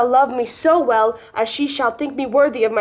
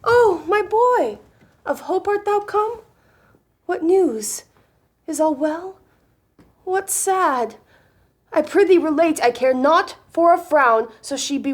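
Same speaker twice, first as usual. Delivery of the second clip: excited; 6 semitones higher than usual. Acted. Eager lover greets messenger.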